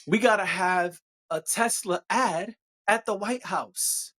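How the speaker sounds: slow, deadpan "we gotta have a Tesla ad at the White House"; slow mock-serious sarcasm; satirical. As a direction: say it with a straight face, dripping sarcasm. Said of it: "I'm being satirical".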